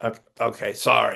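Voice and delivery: mock meek, sheepish, stumbling backing-down tone. Retelling own reply to an abrasive lipidologist: imitating own apologizing.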